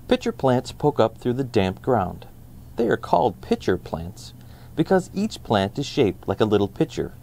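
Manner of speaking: put-on calm read-aloud for kids; steady, even children's book narration; storybook narration. Reads the picture book aloud.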